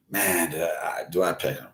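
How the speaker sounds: ordinary talk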